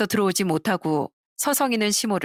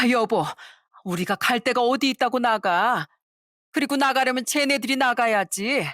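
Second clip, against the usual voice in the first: 남편에게 따지는 시어머니; 5 semitones higher than usual. Acted.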